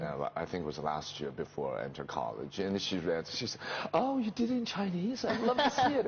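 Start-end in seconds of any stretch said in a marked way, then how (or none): 3.9-6.1 high-pitched, eager exclamation; excited daughter, retold. Father quoting his daughter's reaction to the play, excited. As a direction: imitate a thrilled daughter, voice lifted high.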